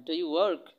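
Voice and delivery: "work" said as a rounded "ork"; American-style "ork" sound in "work"; expert pronunciation. Shown as a demonstration. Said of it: "একটু expert ওয়েতে কিন্তু বলতে পারেন".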